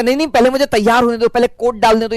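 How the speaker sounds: quick, fussy mock protest; mock student. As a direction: rattle off a lazy kid's stalling. Mimics lazy student.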